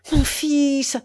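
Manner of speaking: mother begins to cry out for her son; growing energy. Acted. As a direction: start the rising cry. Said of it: "répéta-t-elle avec une énergie croissante".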